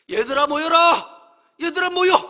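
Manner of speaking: full-voiced, high shout with drawn-out vowels; reenacted all-out yell to gather everyone; calling out loudly. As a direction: holler to summon a crowd at the seashore. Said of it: "소리쳤어요".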